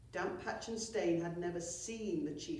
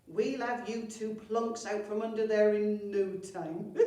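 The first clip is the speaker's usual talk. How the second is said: put-on cheerful old woman; 3 semitones higher, 7 dB louder than usual. Carty voiced, cheerful promise.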